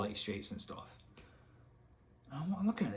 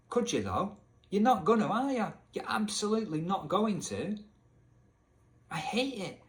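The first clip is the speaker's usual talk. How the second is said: high-pitched, indignant comeback; exasperated; 7 semitones higher than usual. Real, not acted. Gamer answering Elvis's claim, exasperated. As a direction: argue back in fed-up disbelief. Arguing back at game character.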